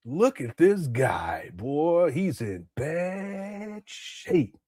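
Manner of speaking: slow, hushed mock sorrow; mock pity. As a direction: drop to a slow hush, pretending to grieve.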